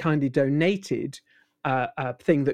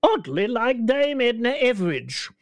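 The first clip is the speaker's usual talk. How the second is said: Herbert voice; 8 semitones higher than usual. Retold or imitated. Impressionist describing Herbert in his high old man voice. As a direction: pitch it up into a strange old man. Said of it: "strange older man".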